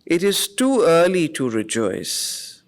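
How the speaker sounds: solemn inner voice, lightly lifted; voice of the soul. Acted. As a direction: speak as the soul warning him gently. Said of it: "he says".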